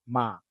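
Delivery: "Ma" dragged out on a level pitch; long, unmoving "Ma"; flat mid tone. Shown as a demonstration. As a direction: hold "Ma" steady, without bending. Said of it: "just drag it out".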